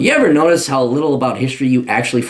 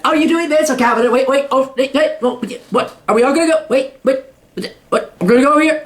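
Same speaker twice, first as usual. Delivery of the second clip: high, fast giddy gossip voice; mock valley girl voice; 9 semitones higher than usual. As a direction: parody a giggly girl group. Mocking women voting on fashion.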